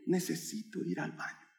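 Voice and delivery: very soft, strained whimper of a plea; tearful pleading. Retold or imitated. Child begging his teacher for the bathroom, tearful pleading. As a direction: beg in a tiny, choked-up child's voice. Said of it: "colorado y llorando".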